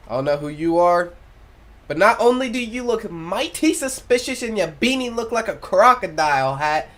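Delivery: lively animated banter; hype friendly voice. Acted. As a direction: hype him up playfully. Character voice, loud friendly.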